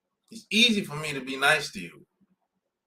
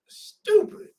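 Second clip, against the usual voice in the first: whispered insult. Real, not acted. Muttered insult under breath.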